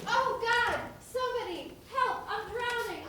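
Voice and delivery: high, loud panicked cries for help; staged drowning cries. Acted. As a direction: ham up a drowning man's panic. Staged drowning for paying customer.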